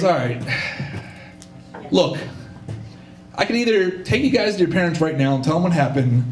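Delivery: low-pitched, measured ultimatum; lightly imitated stern driver; stern grown-up. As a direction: lay down the terms like a lenient adult. Driver sternly offers the boys a deal.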